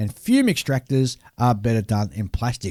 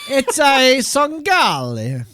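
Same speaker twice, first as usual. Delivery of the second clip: slow, high, hammed-up Italian accent; exaggerated Italian accent with hand gestures; 12 semitones higher, 5 dB louder, much slower than usual. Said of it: "doing your Italian accent".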